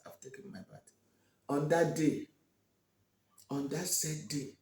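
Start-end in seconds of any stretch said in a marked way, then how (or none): 0.0-0.9 breathy whispered reply, barely audible. Acted. Olama whispering back to the mocking women. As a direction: let it sink to a whisper, withdrawn.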